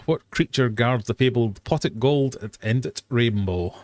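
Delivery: put-on slipping into a Yorkshire accent. Quizmaster reading a folklore question, Yorkshire accent. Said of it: "did that in a Yorkshire".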